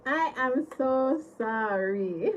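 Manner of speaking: giggling through it; real laughter; laughing apology. Real, not acted. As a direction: apologize while still cracking up. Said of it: "I cannot stop laughing".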